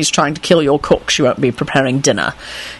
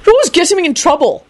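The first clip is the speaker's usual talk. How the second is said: higher indignant whine; outraged complaint; 13 semitones higher than usual. A narrator's reading. Neville blaming Lupin for his trouble, indignant higher whine. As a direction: protest hotly at being blamed.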